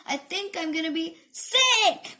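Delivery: mildly panicked exclamation; crying out. A narrator's reading. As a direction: rise to a cry on the last word. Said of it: "cried Mom".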